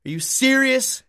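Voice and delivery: high, disbelieving question; surprised. Real, not acted. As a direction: ask it in sheer disbelief. Disbelief at the AI's answer.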